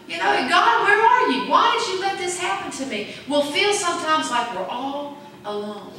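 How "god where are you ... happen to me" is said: raised, anguished cry to God; pleading prayer. Retold or imitated. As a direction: plead with God, desperate and high.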